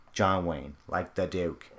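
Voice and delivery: slow touch of a cowboy star's drawl; John Wayne. Retold or imitated. Podcaster listing actors with unchanging voices, light slow impression. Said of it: "they always sound the same".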